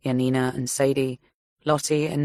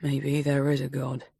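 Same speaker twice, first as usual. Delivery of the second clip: shaken; 3 dB quieter than usual. A narrator's reading. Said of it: "Clearly still shaken".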